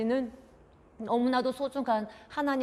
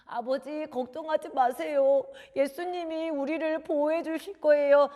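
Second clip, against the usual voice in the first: put-on higher, sincere child voice; earnest reassurance; 6 semitones higher, 3 dB louder than usual. Son promising Jesus will protect them, reassuring. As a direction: comfort a parent with conviction.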